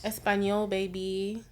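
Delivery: playful attempt at a Spanish accent; lightly put-on Spanish flair; mock Spanish. Joking when asked to speak Spanish, mock Spanish accent. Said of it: "That was not Spanish".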